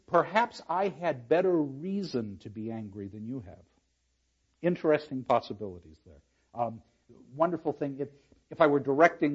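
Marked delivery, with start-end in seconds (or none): 0.1-3.6 other reading. Shown as a demonstration. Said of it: "The other reading is".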